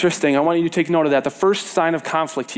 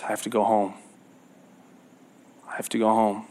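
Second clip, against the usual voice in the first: panicked inner voice; 5 semitones lower than usual. Retold or imitated. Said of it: "he kind of has a panic mode".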